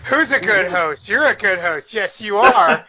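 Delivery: mock dog praise. Co-host praises the host like a pet, cooing playfully. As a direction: gush teasingly as if to a good dog.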